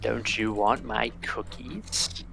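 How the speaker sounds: lightly voiced sweet old hag. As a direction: coax like a sugary witch. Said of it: "the hag says".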